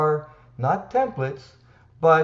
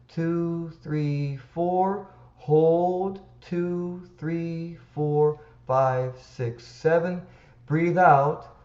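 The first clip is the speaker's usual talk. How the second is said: guided breathing count; slower than usual. Shown as a demonstration. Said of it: "breathe out through pursed lips".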